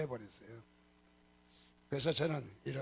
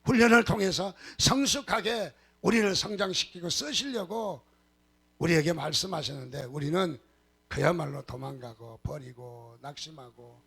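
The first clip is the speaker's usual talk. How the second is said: forceful, declaimed congregational prayer; fervent prayer leading; 6 dB louder than usual. Real, not acted. Pastor praying aloud with congregation about training, fervent. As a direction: lead the congregation earnestly in prayer.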